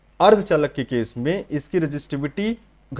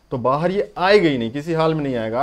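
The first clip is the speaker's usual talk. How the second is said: emphatic insistence; 3 semitones higher, 6 dB louder than usual. Acted. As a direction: hammer home that it never comes out. Teacher insisting electron won't leave. (ज़ोर देकर, ऊँची आवाज़ में समझाना)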